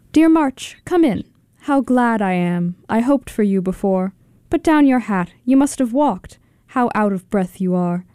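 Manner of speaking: lively, conversational recitation; poem reading. Acted. Kit reading Dickinson's Dear March on the radio, lively recitation. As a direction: greet March like a welcome visitor.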